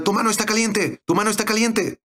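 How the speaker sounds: lightly voiced boy exclaiming in wonder; excited child crying out. A boy prayed for exclaims to the pastor, high and amazed. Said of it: "un niño comenzó a gritar".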